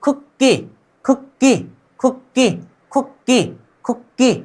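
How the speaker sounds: खुक्की repeated as "khuk-ki", doubled k; pronunciation drill. Shown as a demonstration. Teacher repeats the word for learners, pronunciation drill. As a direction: drill खुक्की in two short beats, pausing after each. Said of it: "क्या बोलेंगे?".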